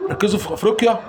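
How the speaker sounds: real rallying shout of ركزوا في أفريقيا; urging shout. Real, not acted. Fan shouting at his team to focus on Africa, rallying.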